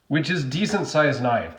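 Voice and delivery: ordinary delivery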